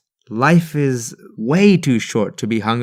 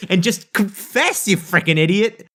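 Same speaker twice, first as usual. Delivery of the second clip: higher-pitched telling-off, played for comedy; mock scolding; 5 semitones higher than usual. Narrator imagines telling off his middle school self, mock scolding. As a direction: scold your younger self in exasperation. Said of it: "and be like".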